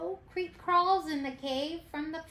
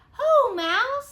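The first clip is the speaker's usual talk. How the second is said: loud, high hail; hearty greeting; 7 semitones higher, 10 dB louder than usual. Acted. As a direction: boom out a welcome. Hare greets loudly.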